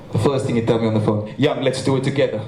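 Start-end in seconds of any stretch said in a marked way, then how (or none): 1.4-2.4 put-on Keenan's accent. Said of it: "that was a good accent".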